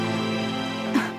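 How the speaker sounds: soft, airy sigh; wistful sigh. Acted. Woman receives the doll she always wanted, soft sigh. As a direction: let out a quiet breath. Moved by the gift.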